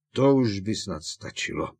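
firm, cutting it off; sudden protest. Acted. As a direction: object abruptly. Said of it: "ohradil se náhle Křiklan". (ohrazení)

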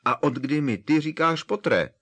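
indignant Hagrid, peaking. A narrator's reading. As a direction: push the outrage to the top.

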